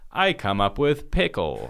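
slow, hammed-up Yiddish accent; a playful Yiddish accent. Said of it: "this is my Yiddish accent".

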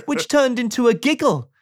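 high, rising, gleeful narration; storyteller swelling to a big climax; building excitement. A narrator's reading. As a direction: pile up each word, stretching the last one out. Narrator builds up the growing laugh.

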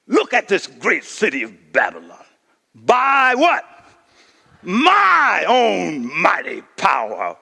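boastful king admiring his city; a proud king showing off; blatant arrogance. Acted. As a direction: puff up with pride. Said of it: "here's arrogance, blatant".

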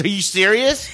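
chuckling "are you serious"; laughing disbelief. Retold or imitated. Retelling coworker laughing at the angry woman. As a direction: laugh through it. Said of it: "starts laughing again".

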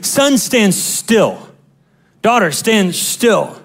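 slow, gentle, drawn-out command; slow tender voice of God. Retold or imitated. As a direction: speak it slowly as the Lord stilling his child. The Lord speaks in prayer.

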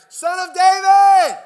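huge, high, drawn-out yell; slow, full-out shout to be heard over everyone. Acted. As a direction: bellow it at the top of your voice. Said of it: "But he only shouted louder".

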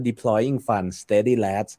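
each word of "deploying fund steady lads" drawn out very slowly; slow quote. Retold or imitated. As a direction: stretch the quote out word by word, lightly mocking. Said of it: "โดควันตอนที่บอกว่า". (พูดช้ามากแบบล้อเลียนคำพูด)

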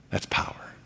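whispered, almost breathless; a hushed whisper of wonder; awed whisper. Real, not acted. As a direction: let the word drop into a hush. Hushed awe after the story.

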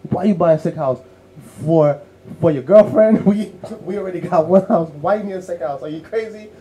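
high, teasing disbelief breaking into a laugh; incredulous. Retold or imitated. Speaker teasing dad about a second house, high and incredulous. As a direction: needle him like he's lost his mind. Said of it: "I was like".

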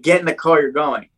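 firm retold parental order; mom's order. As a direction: imitate a mom who won't argue. Retold mom ordering him into car.

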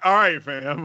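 put-on UK accent. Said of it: "he had to say it in the accent".

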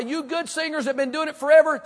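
high, loud preacher's challenge; rousing exhortation. Retold or imitated. Pastor to long-time choir singers, loudly exhorting. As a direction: call the veterans out with force.

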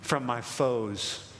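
low, slow psalm reading with long pauses; a touch of solemn awe, read deliberately; hushed scripture reading. Acted. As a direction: let each phrase of the verse settle. Reads the psalm quietly.

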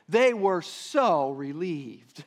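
slow, ironic drawn-out relief; mock relief. Preacher teasing the congregation with a false reading, slow and ironic. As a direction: pretend they were glad, knowing they weren't. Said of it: "Is that what it says?".

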